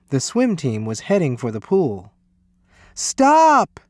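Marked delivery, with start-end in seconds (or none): 2.9-3.8 high, loud, drawn-out shout; urgent cry. A narrator's reading. Lewis halting the swim team, loud urgent cry. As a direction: cry out to halt them at once. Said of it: "cried Lewis".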